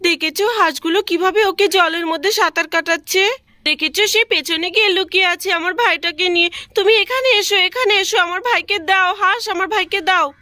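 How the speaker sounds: a hint of a child asking for her brother back; little girl voice. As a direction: coax the duck like a small child begging. Child Pinki pleads with duck.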